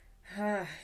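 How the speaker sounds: relaxing sigh. Shown as a demonstration. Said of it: "You can even let out some".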